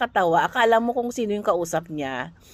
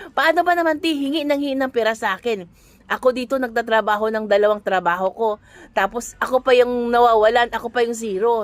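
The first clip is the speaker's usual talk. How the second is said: mock frustrated rant; 2 semitones higher, 4 dB louder than usual. Coworker complaining about family asking for money, mock exasperated. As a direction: vent like someone who is always asked for money. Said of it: "Sabi niya ganyan".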